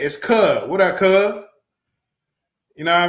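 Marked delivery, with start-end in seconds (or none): 0.2-1.4 CUZ said as cuh, without its z; local cuh. Retold or imitated. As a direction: drop the z from each CUZ. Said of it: "These guys down here, like you say".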